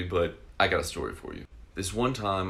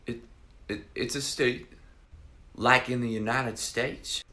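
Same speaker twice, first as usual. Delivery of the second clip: put-on slow, higher voice of a baffled girl; retold baffled girl; 4 semitones higher than usual. Alabama girl asks about Oklahoma, slow mock bafflement. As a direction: imitate slow, puzzled questioning, pitched up. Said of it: "and she said".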